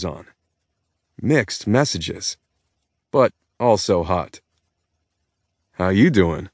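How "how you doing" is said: Joey line. Acted. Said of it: "I Joey'd her".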